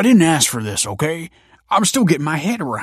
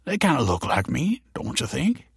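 higher-pitched, pleased father; beaming pride; 5 semitones higher than usual. A narrator's reading. Tony admiring his babies, beaming. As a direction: say it with a proud smile. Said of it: "beamed Tony".

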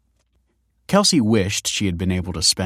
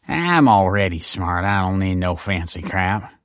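slurred. A narrator's reading. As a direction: slur it like a beer drinker. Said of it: "slurred Seth".

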